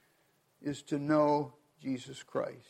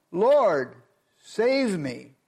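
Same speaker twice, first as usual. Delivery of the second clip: louder mock cry of a sinking man; 4 semitones higher, 8 dB louder, much slower than usual. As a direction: call out for rescue, louder. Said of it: "he cried out, saying".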